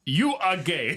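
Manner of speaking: shouting. Retold or imitated. Meme quote shouted.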